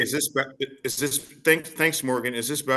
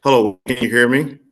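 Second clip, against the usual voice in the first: choppy, static-filled connection; breaking up; 11 dB louder than usual. Real, not acted. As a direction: voice cutting in and out. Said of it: "you're breaking up every other sentence".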